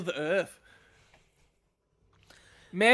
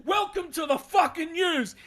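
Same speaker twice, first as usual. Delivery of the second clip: mock news anchor; 4 semitones higher than usual.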